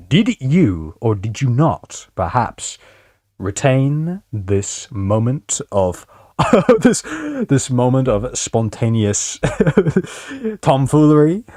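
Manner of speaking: slow pompous butler; drawn-out posh phrasing; mock formal. Mock formal address to chat.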